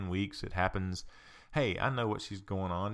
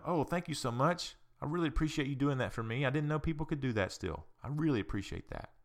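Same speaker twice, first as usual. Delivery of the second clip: grateful thanks; 4 semitones higher than usual. Retold or imitated. Grateful lady thanks door-holder.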